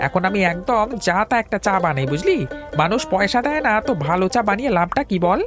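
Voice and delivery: high, agitated tea-seller voice; indignant grumbling. Acted. Tea seller blaming non-paying customers for bad tea, indignant. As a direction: complain at a high, worked-up pitch.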